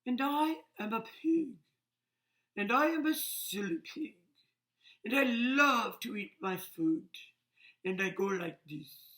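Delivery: lightly voiced cheerful pig; silly pig voice. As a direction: play a silly greedy pig for little kids. Reading a silly pig's lines.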